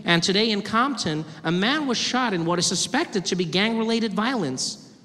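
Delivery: TV newsreader cadence; news anchor. Acted. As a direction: read it like evening news. News anchor report parody.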